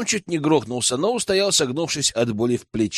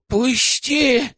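high, wheezing cry of a squirming captive; a choked, high wheeze of a word; rasping plea; 10 semitones higher than usual. Acted. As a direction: rasp it out while struggling. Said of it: "просипел Тихомир".

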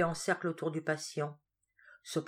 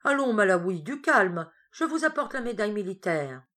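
coaxing doctor; 3 semitones higher, 5 dB louder than usual. Acted. Doctor coaxing the angry patient.

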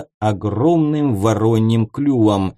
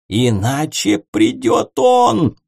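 wailing yell; 3 dB louder, slower than usual. Acted. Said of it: "завопил Ворон".

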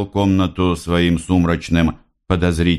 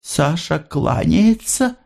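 high, slow motherly line; mother's voice; 11 semitones higher, slower than usual. A narrator's reading. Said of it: "сказала она". (высоким голосом матери, медленно)

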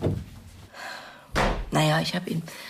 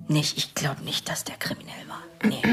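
whispered. Acted. Sister whispering to the detective that her brother wasn't a criminal. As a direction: say it under your breath, unsure.

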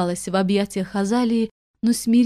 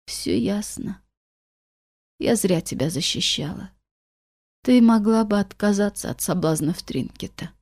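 bitter. A narrator's reading. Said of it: "горько произнесла Азалия".

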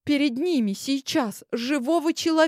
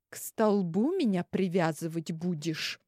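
polite society tone; 4 semitones lower, 6 dB quieter than usual. Acted. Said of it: "спросила я светским тоном".

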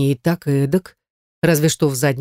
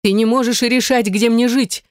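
sniffling; 6 semitones higher than usual. A narrator's reading. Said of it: "всхлипнув".

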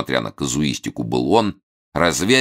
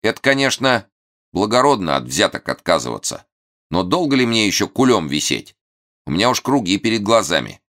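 hoarse but cheerful; 6 semitones higher, 3 dB louder than usual. A narrator's reading. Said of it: "бодрый, подсевший голос".

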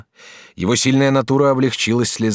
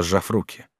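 ordinary delivery

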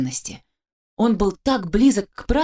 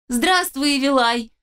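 sugary drawl; 6 semitones higher than usual. A narrator's reading. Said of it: "с приторной улыбкой протянул парень".

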